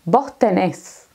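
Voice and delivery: vos tenés with the final S of vos dropped; slow, run vos into tenés as bost enes. Shown as a demonstration. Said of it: "No he pronunciado la S".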